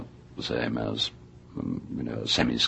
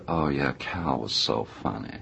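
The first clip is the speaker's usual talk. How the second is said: put-on Southern accent. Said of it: "I can't do the Southern accent".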